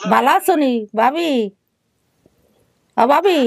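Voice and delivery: to someone hard of hearing. Real, not acted. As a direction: call out so she hears. Calling out to deaf sister-in-law.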